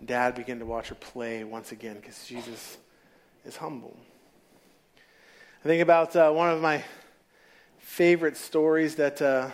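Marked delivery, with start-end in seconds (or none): 2.0-4.0 soft repeat. Shown as a demonstration. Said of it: "Why is Jesus humble?".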